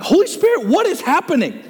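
asking the Spirit. Retold or imitated. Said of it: "I'm like".

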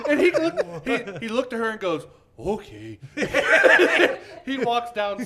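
high, loud words through laughter; cracking up mid-story; laughing hard. Real, not acted. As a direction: barely get it out for laughing. Cracking up retelling.

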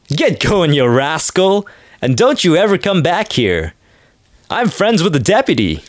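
hammed-up angry old-time father, pitch up; mock bark at the daughter's suitor. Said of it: "And the father's like".

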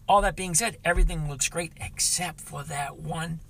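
high, loud and upbeat; excited sign-off. Real, not acted. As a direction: lift it up for the wrap.

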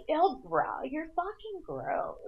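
disgusted bro, slow and drawn out; frat bro. Retold or imitated. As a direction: talk like a grossed-out frat bro. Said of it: "I'd be like".

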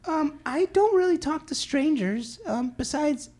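high, slow woman's voice. Pretend. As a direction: play a cold, uninterested woman. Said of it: "I'm a woman".

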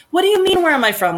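high-pitched, incredulous pushback; indignant retort. Acted. Answering a stranger who asked where she's from, indignant. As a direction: throw the question back, voice leaping up on "what do you mean". Mock retort to intrusive question.

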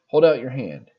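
a mock sergeant scolding in a light French-Canadian accent. Sergeant scolds the recruit over the fluff, mock French-Canadian bark. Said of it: "female French-Canadian sergeant".

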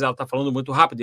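rapid run of words, demonstrating fast speech; fast talking. Shown as a demonstration. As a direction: rattle it off quickly. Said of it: "varia muito a velocidade da fala dela".

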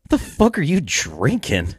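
slow, drawn-out disbelieving question; mock incredulous. Man looking down at his buddy's drink, mock incredulous.

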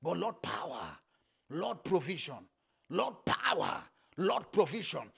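low, spaced-out invocation; measured prayer. Real, not acted. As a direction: call on God in short, separate phrases. Leads a prayer.

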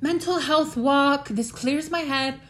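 high, slow mock-earnest voice; imitating everybody. Vlogger imitating everybody who takes walks, mocking. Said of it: "Except everybody's like".

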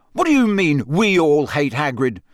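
put-on furious boy snapping back; spat. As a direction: spit the words back at Malfoy. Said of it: "Harry spat".

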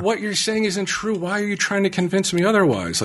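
high-pitched, incredulous retort; exasperated arguing. Retold or imitated. Reenacts arguing with her over untrue claim, exasperated.

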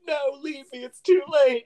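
high, dramatic mom plea; lightly mocked tragic goodbye; mock dying mom. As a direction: ham up a dying mother's farewell. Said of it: "And she's like".

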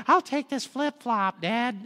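lightly put-on helpful child, drawn out; mock kid volunteering the easy job; kids offering token help. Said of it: "your kids are like".

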